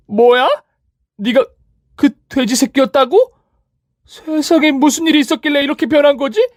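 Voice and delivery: rival stunned at the change; shocked rival. Acted. (훨씬 높고 크게 놀라는 상간녀)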